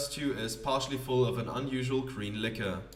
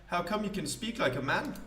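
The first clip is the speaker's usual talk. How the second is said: higher, grand theatrical poet voice; pompous poet; 6 semitones higher than usual. Acted. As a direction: play a self-important wandering poet.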